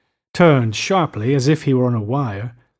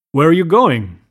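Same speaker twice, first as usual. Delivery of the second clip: alarmed demand; 3 semitones higher, 5 dB louder than usual. A narrator's reading. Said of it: "demanded Gatsby in immediate alarm".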